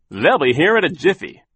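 high, loud waiter's promise; chirpy waiter. A narrator's reading. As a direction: promise it with bouncy eagerness. Waiter promises quick service.

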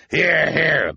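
high, loud call of assent; cry of agreement. A narrator's reading. Mister Lesko seconds the plan, hearty cry. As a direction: call out your support. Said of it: "Mister Lesko cried".

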